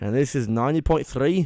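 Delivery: radio ident in mock Scottish accent. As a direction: attempt a Scottish announcer. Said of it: "why can't I do it now?".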